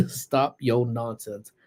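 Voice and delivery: laughing. Real, not acted.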